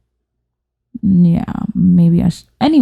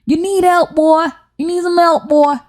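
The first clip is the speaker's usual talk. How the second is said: high-pitched hammed-up "you need help"; drawn-out, high mock concern; appalled relative; 9 semitones higher, slower than usual. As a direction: plead up high like a horrified parent. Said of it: "so they can be like".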